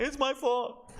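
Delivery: high mocking "It's my fault" in a put-on voice; mock apologetic player. Coach mocking a player's locker-room apology, high mocking put-on voice. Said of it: "Going in the locker room saying".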